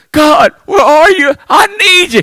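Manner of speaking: mock pleading call, pitch up; pleading cry to God. Preacher voicing a begging believer calling to God, mock plea. Congregation voiced crying out to God.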